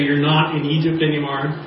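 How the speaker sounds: crowd echoing the line; congregation repeating. Acted. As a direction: repeat it back together.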